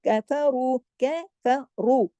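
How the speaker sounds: कफरू slowly, with a thick long रू; heavy R. Shown as a demonstration. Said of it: "सिर्फ रू मोटा पढ़ा जाएगा". (कफरू, रू मोटा)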